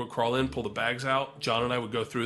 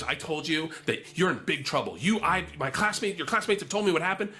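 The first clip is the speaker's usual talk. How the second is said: lightly imitated telling-off, pitched higher; mock teacher scolding; 5 semitones higher than usual. Chaperone teacher telling off her student, mock scolding. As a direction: lay into a student who's in trouble.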